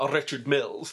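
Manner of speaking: Richard said with a trilled, rolled R. Real, not acted. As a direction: roll the R in "Richard" hard. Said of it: "Why do you always roll the R's".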